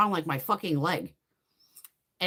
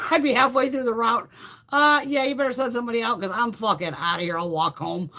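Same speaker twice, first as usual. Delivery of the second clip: raised voice, breaking into laughter; half-laughing quitting call; 3 semitones higher, 3 dB louder than usual. Acted. Driver calling in mid-route to quit, loud laughing exasperation. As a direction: play the fed-up driver, amused.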